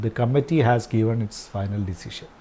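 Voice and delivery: very slow, word by word; slow dictation. Shown as a demonstration. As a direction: read it out slowly for the class to write. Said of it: "ശരിക്കുള്ള sentence". (വളരെ പതുക്കെ, വാക്കോരോന്നായി)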